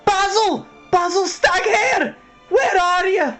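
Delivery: high, loud, drawn-out call; shouting. Acted. Young mouse calling the hare for help, shouting. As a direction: yell for a missing friend at full voice. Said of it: "he shouted at the top of his voice".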